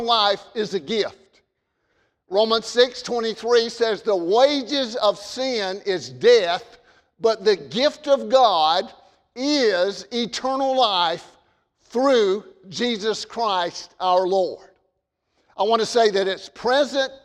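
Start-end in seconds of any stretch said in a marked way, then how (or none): 4.0-14.7 scripture reading. Acted. Pastor reading Timothy to his congregation, solemn and measured. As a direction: proclaim the verses to the pews.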